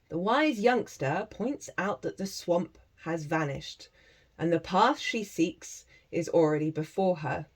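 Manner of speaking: spiritual teacher reads the oracle card legend to viewers, softly; story reading. Acted.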